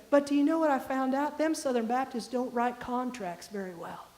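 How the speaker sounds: folksy imitation of a Southern professor; Southern accent. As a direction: deliver it as a Southern punchline. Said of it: "very deep, articulated Southern accent".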